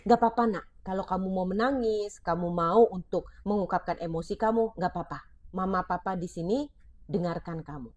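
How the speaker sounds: put-on a parent telling a child it's fine to cry, tender and soft; reassuring parent. Shown as a demonstration. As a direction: soothe the child gently. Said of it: "ganti dengan kata-kata ini".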